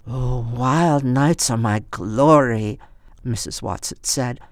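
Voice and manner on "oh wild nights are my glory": put-on old woman voice.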